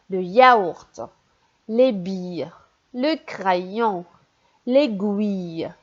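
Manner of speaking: each word read out slowly and clearly for the class; careful teacher reading; word-by-word reading drill. Shown as a demonstration. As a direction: model each word for children to repeat. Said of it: "Lis les mots".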